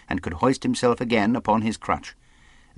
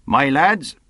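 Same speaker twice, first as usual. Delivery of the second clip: louder, higher rallying call; commanding captain; 6 semitones higher, 6 dB louder than usual. Acted. Captain opens his speech to his men, commanding voice. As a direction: summon the men's attention.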